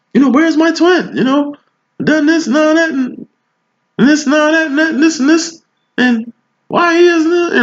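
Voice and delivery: high, whiny mock of an anxious client; mocking insecure voice. Reader mimics client fretting about her twin flame. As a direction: squeak out the worries like an insecure lover. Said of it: "that voice".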